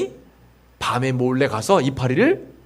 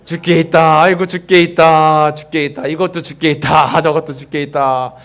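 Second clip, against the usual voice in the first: cheerful rallying phrase; 4 dB louder than usual. Shown as a demonstration. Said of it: "자꾸 하세요".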